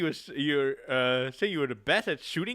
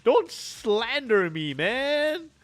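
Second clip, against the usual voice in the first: loud, higher protest; mock indignant; 5 semitones higher, 3 dB louder, slower than usual. Real, not acted. Player denying the awkward eye contact, mock indignant. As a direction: deny it in mock outrage.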